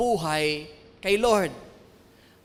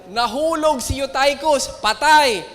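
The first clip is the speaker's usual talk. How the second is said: dramatic shout; 4 semitones higher, 5 dB louder than usual. Acted. Dramatic climax of Bible story.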